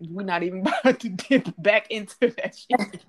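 words broken by a laugh; giggling through the line. Acted. Laughing to a friend about masking again.

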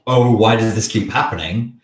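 hammed-up bewildered lament; mock dismay. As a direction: put on a helpless "why me" wail, lightly. Mimicking a helpless attitude he denies.

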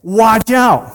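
slow, drawn-out warning call; mock warning yell. Pastor voicing Paul's warning, a slow called-out alert. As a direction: call it out like a lookout. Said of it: "Paul yells again".

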